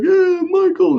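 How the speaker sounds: high-pitched imitation of a drunk; mock a drunk brother calling out, voice way up. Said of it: "my brother was drunk".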